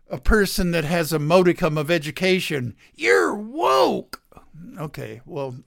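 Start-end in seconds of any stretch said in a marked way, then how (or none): 3.0-4.2 sneering whispered jab; hushed mock taunt; mocking maga head. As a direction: whisper it like a scornful insult. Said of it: "maga heads can call a".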